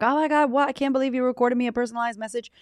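mock gushing fan reply; excited fan. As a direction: rattle it off in disbelief. Listener's thrilled reply quoted.

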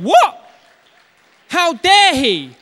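the enemy can't believe it, hammed-up; outraged enemy. Enemy protesting God's verdict of freedom, high outraged shriek.

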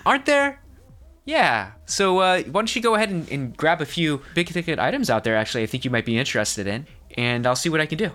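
high, pushy salesman pitch; eager shopkeeper voice. Acted. GM voices the shop clerk.

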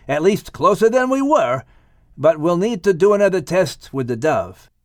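steady him with fatherly caution; father tempering his son's hopes; gently counselling Noah. Acted.

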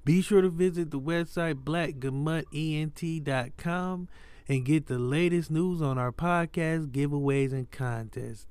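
low announcer outro; podcast outro read. Acted. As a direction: read the sign-off like an ad. Reads the outro ad.

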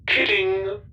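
amused machine explaining itself; robot, wry. Acted. Goro robot explains perks.

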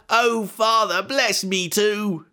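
high, drawn-out anguished plea; acted tearful begging; crying out loud. A narrator's reading. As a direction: wail to your father, stretching the last words. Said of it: "he began to cry out loud".

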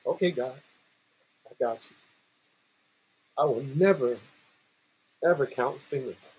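soft, low retold promise with long pauses; humbled vow. Coach accepting God's lesson, humbly quiet. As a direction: promise it quietly, pausing between phrases.

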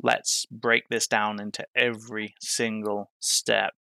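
slow flat monotone. Retold or imitated. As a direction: drone it out like a tired lecture. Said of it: "I say that in a monotone voice".

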